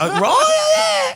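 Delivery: mock the South African accent with a squealing yell. Podcaster mocking the South African accent to his cohost, squealing mock yell. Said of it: "the South African accent is the worst accent".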